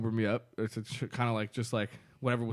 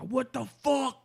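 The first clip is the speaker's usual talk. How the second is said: indignant quote; 11 semitones higher, slower than usual. Retold or imitated. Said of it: "He's like".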